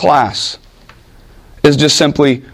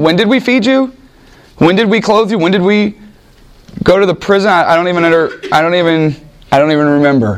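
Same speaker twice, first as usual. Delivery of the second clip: bewildered righteous; 3 semitones higher than usual. Acted. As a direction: play the stunned good servants asking when. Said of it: "They're going".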